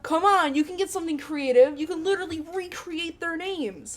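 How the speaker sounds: high, loud and exasperated urging; acted-out pleading pep talk; coaxing a coworker.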